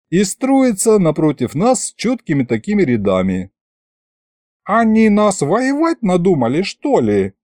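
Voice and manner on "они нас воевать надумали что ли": high start, dropping at the end; mild astonishment. A narrator's reading. Михалыч sees soldiers lining up against them, mild astonishment. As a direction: question it in amazed disbelief. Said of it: "поразился Михалыч".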